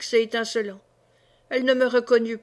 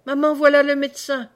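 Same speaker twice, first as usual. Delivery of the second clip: crié plus haut et plus fort, hors d'haleine; cri essoufflé; 4 semitones higher, 6 dB louder than usual. A narrator's reading. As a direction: appeler sa mère en courant, à bout de souffle. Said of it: "essoufflé en criant". (l'enfant annonce le médecin à sa mère, cri essoufflé)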